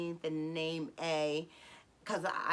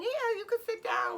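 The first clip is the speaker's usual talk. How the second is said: familiar, welcoming. Retold or imitated. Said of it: "familiarity kick in".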